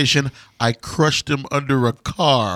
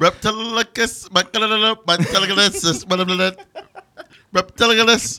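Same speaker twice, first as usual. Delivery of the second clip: playful high title; 8 semitones higher than usual. Pretend. Co-host crooning the monster movie title.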